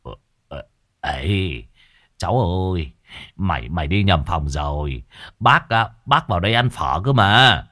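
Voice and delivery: lightly voiced stammering old man; old man stuttering to the girl, a touch of panic. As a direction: stumble over the words, flustered. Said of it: "Lão lắp bắp".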